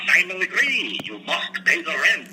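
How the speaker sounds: lightly voiced twirling-moustache baddie; melodrama villain. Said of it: "where you do all the characters".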